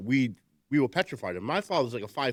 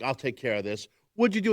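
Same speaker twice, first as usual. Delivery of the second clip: stern dad skit. Retold or imitated. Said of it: "father's like".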